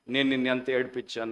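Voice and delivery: model prayer. Acted. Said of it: "అని ప్రార్థన చేసుకుందాం".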